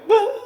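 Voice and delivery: mock cry of alarm under pressure; imitated flustered "ah"; startled cry. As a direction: yelp as if being yelled at. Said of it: "why this man screaming at me".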